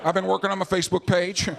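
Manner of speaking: hesitant, clueless ex-president impression; stall, then answer sheepishly; George W. Bush. Former president asked what he has been doing, clueless impression. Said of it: "But with George W. Bush, they'll be like".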